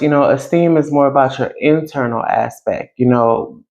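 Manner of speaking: muffled by a covered mic. Real, not acted. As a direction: talk through a covered microphone. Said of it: "I think I just covered the mic".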